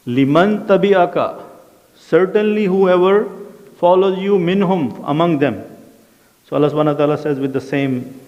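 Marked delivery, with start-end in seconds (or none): 0.1-5.6 stern divine warning. Retold or imitated. Allah's threat to Satan recited.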